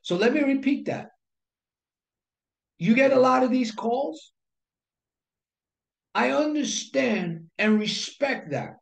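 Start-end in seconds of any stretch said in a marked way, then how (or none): 2.8-4.3 "You get a lot of these calls" lifted, rising at the end; deliberate sales delivery. Shown as a demonstration. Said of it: "it's how you say it". 6.1-8.7 slow, measured acknowledgement; deliberate sales delivery. Shown as a demonstration. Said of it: "it's how you say it".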